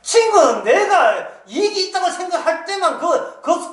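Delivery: a hint of a man over drinks, high and drawn out; mock drunken sigh about friends; lightly voiced drinker lamenting; tipsy lament. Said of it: "술 한잔 먹으면서".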